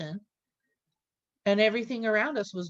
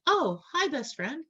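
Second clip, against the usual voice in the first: excited greeting; 10 semitones higher than usual. Retold or imitated. Greeting new friend.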